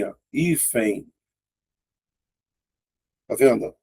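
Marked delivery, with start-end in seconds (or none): 0.3-1.1 HÍFEN sounded out with silent H and nasal "ein" ending; phonetic demo. Shown as a demonstration. Teacher shows how it stays phonetically, careful HÍFEN. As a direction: say "Hífen" carefully, long I, nasal glide at the end. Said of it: "Fica assim".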